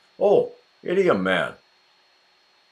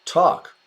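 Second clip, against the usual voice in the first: tuck lifted high on its own; tuck, said higher to highlight it; emphatic correction; 6 semitones higher than usual. Shown as a demonstration. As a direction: stress tuck as the fix.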